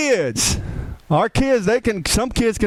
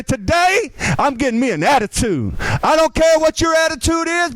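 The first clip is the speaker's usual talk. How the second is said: higher, punchy "Today" with attitude; "Today, I'm getting me an attitude" said with sass and a raised "Today"; sassy declaration; 5 semitones higher than usual. Shown as a demonstration. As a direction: declare it with swagger. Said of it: "like me, I would say".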